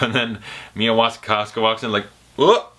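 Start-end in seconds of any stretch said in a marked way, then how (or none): 2.4-2.7 a high, louder startled whoop; caught-off-guard yelp; mock surprised whoop. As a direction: act out walking in on something awkward. Mia walks in on them.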